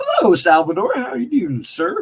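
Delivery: voice cracking up very high. Greeting a viewer by name after a day of cleaning, voice cracking. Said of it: "Sorry, my voice cracked".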